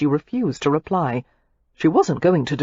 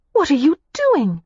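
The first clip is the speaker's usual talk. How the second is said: put-on higher, heated young woman's voice; Daisy, furious; 10 semitones higher, 3 dB louder than usual. A narrator's reading. Daisy snaps back at Matthew in fury. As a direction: hurl the accusation back at him.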